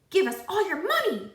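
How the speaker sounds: high, loud robber bark; masked robbers threaten the class; robber demand. A narrator's reading. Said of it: "they demanded".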